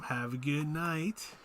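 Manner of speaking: slow, soft, drawn-out goodnight; odd drawn-out goodbye. Real, not acted. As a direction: stretch the goodbye oddly and softly. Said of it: "Why did I say it like that?".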